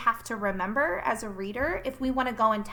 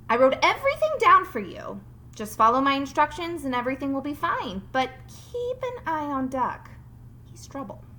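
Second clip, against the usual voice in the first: a light, louder Farmer Brown voice; 3 semitones higher, 4 dB louder than usual. Acted. Teacher voicing Farmer Brown leaving instructions for Bob. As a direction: read the farmer's note, a bit higher and bossy.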